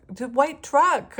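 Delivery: high, loud, slow, bursting into laughter; overwhelmed by a sign; giddy amazement. Real, not acted. Amazed at a passing truck.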